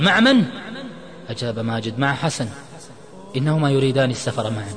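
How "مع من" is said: high, loud shocked question; thunderstruck. A narrator's reading. Imad learns friend left with someone, shocked. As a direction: blurt it out, stunned. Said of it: "صعق عماد وقال".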